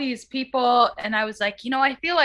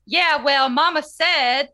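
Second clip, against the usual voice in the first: put-on Southern accent. Reading a singer's post in a mock Southern accent. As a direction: read it like a Southern belle, lightly. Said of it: "read it as a Southerner".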